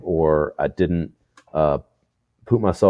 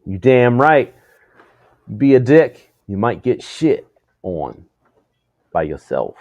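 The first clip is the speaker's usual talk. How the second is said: A DJ; 4 semitones higher than usual. Acted. Quoting a DJ's motto to a co-host, light mock swagger. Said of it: "That's a DJ's quote".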